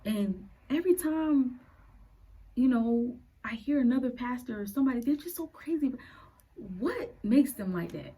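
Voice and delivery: put-on a frank, bewildered teen talking to God; teenage prayer. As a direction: ask God like a confused teenager. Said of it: "The first prayer I made to him".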